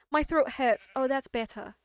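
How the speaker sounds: lightly voiced British queen. Shown as a demonstration. Streamer retrying the queen voice with a sore throat, British queen. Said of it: "really scoffing up the voice right now".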